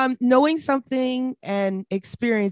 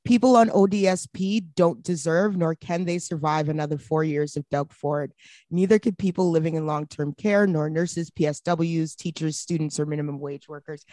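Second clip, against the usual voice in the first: reading a tweet aloud; 6 semitones lower than usual. Shown as a demonstration. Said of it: "Matthew Green tweeted something this morning that said".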